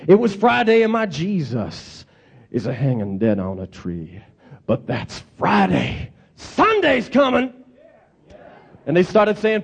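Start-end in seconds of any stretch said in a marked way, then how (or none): 0.1-7.5 slow, drawn-out preacher's build; preacher's cadence. Retold or imitated. Retelling the pastor's sermon, slow preacher's cadence. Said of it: "you should have heard the way that this pastor did it".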